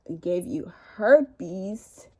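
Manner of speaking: slow, drawn-out disbelieving question rising at the end; stunned question. Retold or imitated. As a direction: ask it slowly, not believing your ears. Her stunned reply to the ex.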